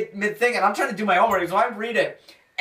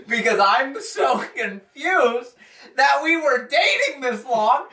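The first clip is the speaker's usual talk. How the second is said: laughing disbelief; 6 semitones higher, slower than usual. Real, not acted. Laughing at the confusion.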